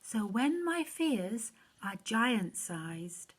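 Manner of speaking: put-on lively rhyming read-aloud for children; story reading. A narrator's reading. Reading a Bible rhyme to children, storyteller voice. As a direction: read it like a bedtime rhyme to kids.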